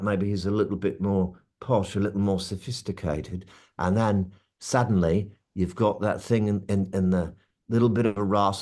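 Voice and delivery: London accent turning posher; posh London accent with a little rasp; smoothed-out Cockney. Shown as a demonstration. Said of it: "then you sort of smooth it out".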